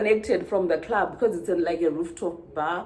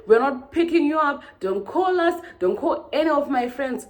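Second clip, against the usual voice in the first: imitating angry refusal; 7 semitones higher than usual. Retelling Chris's rude reply.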